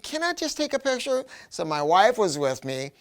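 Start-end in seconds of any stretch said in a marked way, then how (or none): 0.0-1.2 pleading again. Retold or imitated. Asking again more pleadingly.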